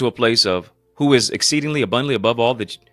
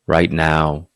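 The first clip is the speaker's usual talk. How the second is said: promo read. Acted. Pastor reads his own sponsor promos.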